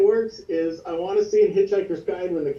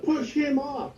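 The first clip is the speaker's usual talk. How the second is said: higher gleeful shouted cheer; character yelling; 10 semitones higher, slower than usual. Acted. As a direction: yell it out gleefully. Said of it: "And yelling out".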